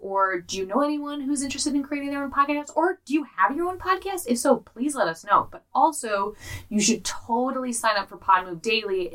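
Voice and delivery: host reading the sponsor plug to listeners. Acted. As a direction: sell the newsletter cheerfully. Sponsor read for newsletter.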